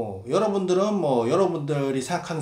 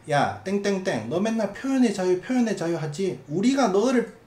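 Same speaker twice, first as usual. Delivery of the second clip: mock heckler; 6 semitones higher than usual. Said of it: "요렇게 말하는데".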